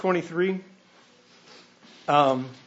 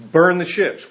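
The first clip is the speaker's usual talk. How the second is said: "Burn" hit louder, falling firmly; firm command; 5 dB louder than usual. Retold or imitated. Cortez ordering his men, "Burn the ships" louder and final. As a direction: repeat the order with more force. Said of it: "then Cortez told them".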